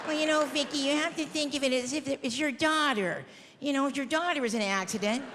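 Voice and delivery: lightly voiced, patient lecturing official; prim shelter worker. Shelter staff lecturing Vicky about dog costs, lightly mocking. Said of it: "No, they're like".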